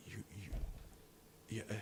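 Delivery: mumbling, then bursting into a yell; mumbling Kingpin. Retold or imitated. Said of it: "he just talks like this".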